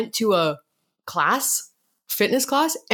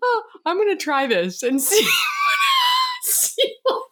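troll voice; slower than usual. Pretend. Trying the troll voice.

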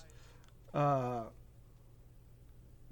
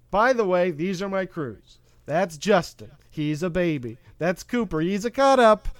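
lightly voiced Fishburne, close to own voice; a hint of a commanding captain introducing his crew; Lawrence Fishburne impression. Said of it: "my best Lawrence Fishburne impression".

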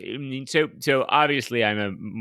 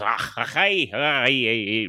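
Scottish hook. Shown as a demonstration. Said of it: "my Scottish hook is".

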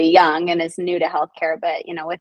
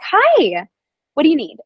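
high, bright mock patient voice; a lightly played busy patient greeting the nurse; 7 semitones higher, 5 dB louder than usual. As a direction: retell her chirpy hello a bit louder.

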